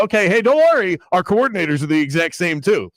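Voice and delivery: lightly voiced cheery spokesman; mock reassurance. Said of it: "Then you go".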